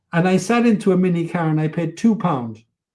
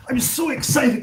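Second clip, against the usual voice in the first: higher, lifted, thrilled voice; excited; 7 semitones higher than usual. Real, not acted. Telling the host about reaching the top, higher excited voice. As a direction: relive the joy of the summit.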